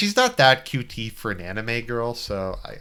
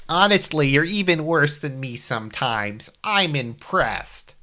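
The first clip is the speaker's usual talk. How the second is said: higher-pitched cartoon kid voice; Mokuba; 4 semitones higher than usual. Teasing friend in the game, Mokuba voice. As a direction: put on an abridged-anime little brother. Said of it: "Mokuba voice from".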